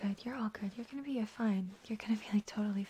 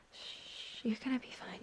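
normal talking voice

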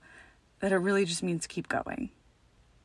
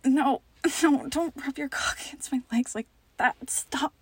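higher, pretending to refuse; playing reluctant, protesting; 5 semitones higher than usual. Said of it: "I wanna scream stuff at you like".

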